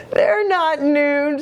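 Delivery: high, slow, tickled little voice; giggling. A narrator's reading. Jilly Boo correcting Jujubee about the noodles, high and giggly. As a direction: say it on the edge of a giggle.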